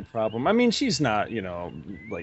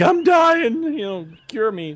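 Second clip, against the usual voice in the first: mock dying patient; 10 semitones higher, 6 dB louder, slower than usual. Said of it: "I didn't go in there like".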